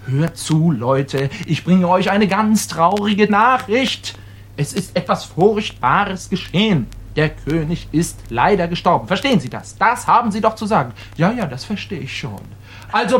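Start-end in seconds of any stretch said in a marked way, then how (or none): 0.1-9.1 solemn demo. Shown as a demonstration. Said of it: "Sie treten raus und sagen".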